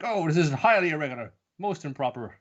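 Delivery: a touch of put-on affront; mock indignant official. Reacting as chaos breaks out, mock indignant.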